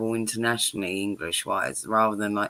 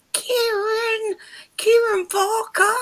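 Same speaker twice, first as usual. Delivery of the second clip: much higher, slow mock Kiwi name call; a teasing, hammed-up Kiwi voice; mock Kiwi accent; 4 dB louder, slower than usual. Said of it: "she'd come in the door and I'd go".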